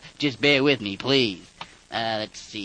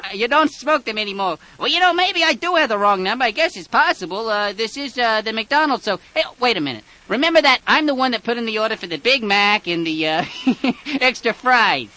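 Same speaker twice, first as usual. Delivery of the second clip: high, loud overeager caller voice; excited prank caller; 9 semitones higher, 5 dB louder than usual. Acted. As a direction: insist you're old friends, loudly. Caller persona ordering fast food.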